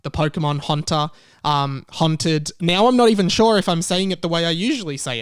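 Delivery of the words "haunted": haunted with a flat, nasal ah vowel, like hahnted; his Australian haunted, said as hahnted; his own haunted. Shown as a demonstration. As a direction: say haunted the way he always has, hahn-ted. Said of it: "how I say haunted".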